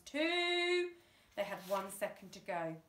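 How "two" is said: loud count. A narrator's reading.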